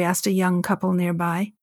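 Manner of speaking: plain reading voice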